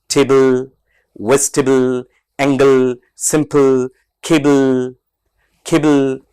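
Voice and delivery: the el at the end of टेबल and सिंपल drawn out; stretched final le. Shown as a demonstration. Teacher shows students how to stretch final le. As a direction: stretch only the final l sound. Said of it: "stretch करते हैं".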